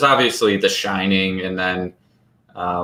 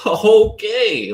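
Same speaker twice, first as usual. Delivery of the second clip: high, falling mock-stunned okay; 13 semitones higher, 3 dB louder than usual. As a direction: pitch it way up, overwhelmed. Acted stunned reaction in theater.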